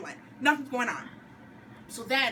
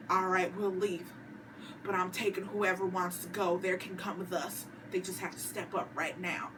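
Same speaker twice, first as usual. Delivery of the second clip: put-on Southern accent; 4 semitones lower, 4 dB quieter than usual. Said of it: "Rick's like".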